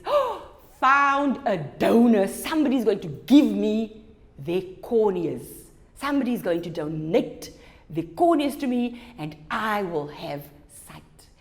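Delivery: slowed, delighted announcement; excited Eva. Acted. Eva telling her fiance she has a cornea donor, delighted. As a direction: tell the good news with joy. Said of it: "And Eva says".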